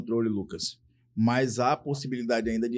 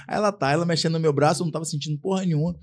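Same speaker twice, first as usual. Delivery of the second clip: usual speaking voice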